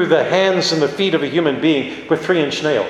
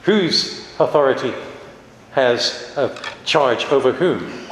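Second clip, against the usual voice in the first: wry raised eyebrow; 3 semitones lower than usual. Retold or imitated. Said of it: "Jesus raised an eyebrow and said".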